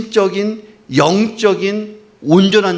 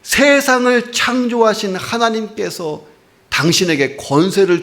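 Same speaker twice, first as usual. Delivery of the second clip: pleading centurion. Retold or imitated. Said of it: "예수님께 얘기한 거예요".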